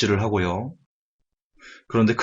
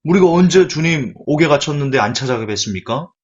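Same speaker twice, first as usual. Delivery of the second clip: higher, louder, indignant whine; aggrieved goats protesting; 5 semitones higher, 3 dB louder than usual. Acted. The goats protest to the Lord, higher and aggrieved. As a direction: protest your innocence, wronged. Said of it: "그 염소들이 얘기합니다".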